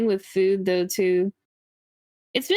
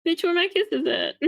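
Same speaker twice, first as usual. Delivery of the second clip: demanding kisses; 8 semitones higher than usual. Retold or imitated.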